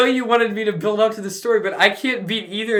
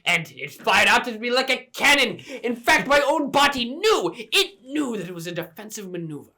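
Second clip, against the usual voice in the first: mock pompous; 3 dB quieter than usual. Mock pompous self-defense speech.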